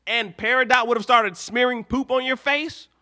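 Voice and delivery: outraged fan scolding Steven; exasperated scolding. Real, not acted.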